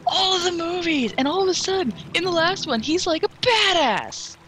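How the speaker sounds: mocking friend. Friend retelling a fan's gushing, in a high mocking voice. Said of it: "she's like".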